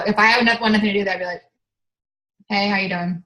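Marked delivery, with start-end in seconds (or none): 2.5-3.2 a lower, slightly softer "Hey, how you doing?" with no energy; flat bad-mood greeting. Shown as a demonstration. Showing the team how a bad mood sounds, flat and unwilling. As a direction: greet someone you want nothing to do with. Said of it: "this is my way of".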